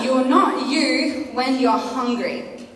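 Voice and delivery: very slow, each word spaced; slow and emphatic. Shown as a demonstration. Preacher making the youth remember the slogan, said very slowly. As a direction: drive it home word by word. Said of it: "I want you to remember this tonight".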